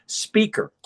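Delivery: put-on high little-kid voice; four-year-old daughter. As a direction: imitate a small child announcing a caller. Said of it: "she was four".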